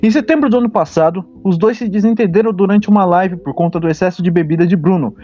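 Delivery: news anchor reading the headline. Acted. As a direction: read it like a TV news item. Reads out a news story.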